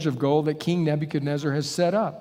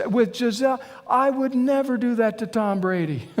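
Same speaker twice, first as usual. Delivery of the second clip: punchline through laughter; 6 semitones higher than usual. Retold or imitated. Punchline, husband's reply.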